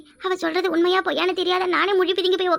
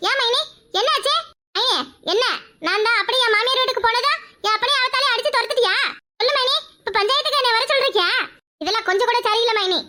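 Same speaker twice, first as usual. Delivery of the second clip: high, scolding, taking offence; indignant sister-in-law; 4 semitones higher than usual. Acted. Sister-in-law lecturing her mainy, high and indignant. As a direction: play the wronged busybody.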